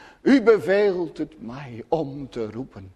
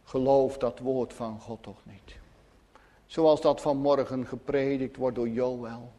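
softer and lower devil's voice; devil's lowered whisper-like tempting; 3 semitones lower, 6 dB quieter than usual. Retold or imitated. Preacher voices the devil tempting the pious: a lower, softer sly tone. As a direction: murmur the doubt like a tempter. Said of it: "wat de duivel tegen je zegt".

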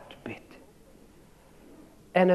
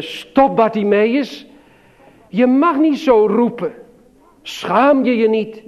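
scolding crowd; 4 semitones higher, 4 dB louder than usual. Retold or imitated. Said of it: "die zeggen".

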